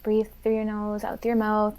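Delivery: soft, slightly slowed breathing cue; gentle end-of-class cooldown voice; calm instruction. Shown as a demonstration. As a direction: talk them calmly through the breath. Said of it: "like, like, talk calmly".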